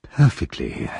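relieved. Acted. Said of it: "said the relieved Mister Bumble".

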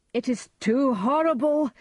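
high, loud cry of shock; horrified cry. A narrator's reading. Macduff has found the murdered king, horrified cry. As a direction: cry out at a dreadful discovery. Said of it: "Macduff cried".

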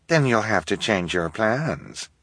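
slow, clipped, dismissive; impatient. Acted. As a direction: cut him off, impatient. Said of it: "Esme said impatiently".

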